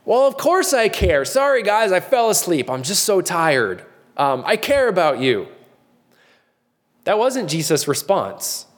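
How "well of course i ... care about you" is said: higher, sheepish, sorry-I-fell-asleep voice; mock a sleepy, sheepish apology; apologetic excuse. Pastor imagines a tired human reply, sheepish. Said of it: "what would our human response be".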